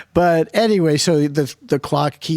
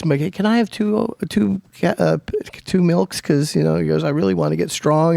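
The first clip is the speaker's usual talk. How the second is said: put-on kid voice; 4 semitones higher than usual. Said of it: "And he goes".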